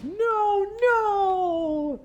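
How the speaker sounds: high, far-off mock cry of a radio soldier; mock radio soldier panic. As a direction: ham up the panicking guy on the radio. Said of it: "guy on the radio going like".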